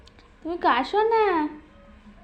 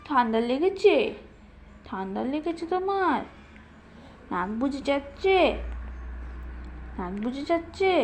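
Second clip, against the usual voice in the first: tender concern; 4 semitones lower, 7 dB quieter than usual. Real, not acted. Parent fusses over baby's cold.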